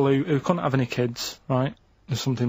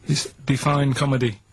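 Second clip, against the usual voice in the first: put-on Jamaican accent. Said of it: "a Jamaican accent".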